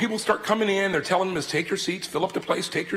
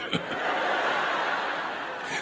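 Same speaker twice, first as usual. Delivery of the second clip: muffled laugh; 5 dB quieter than usual. Retold or imitated. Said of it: "They're laughing so much".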